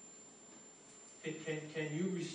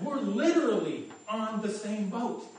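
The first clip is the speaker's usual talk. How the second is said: louder, higher, laughing through the words; amused exasperation, laughing as he says it; laughing disbelief; 4 semitones higher, 7 dB louder than usual. Retold or imitated. Pointing out to quarrelling passengers they share a boat, laughing. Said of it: "And I'm like".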